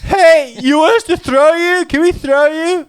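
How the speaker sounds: high, loud hollered offer; mock drunken yell. Drunk bar patrons asking to throw someone, mock hollering.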